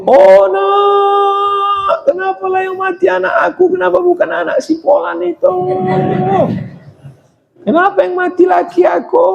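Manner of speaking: high, shouted wailing of a grieving widow; mock wailing lament. Shown as a demonstration. Preacher showing what forbidden wailing over the dead sounds like, high shouted lament. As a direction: wail it out like a hysterical mourner. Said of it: "Yang tak boleh itu".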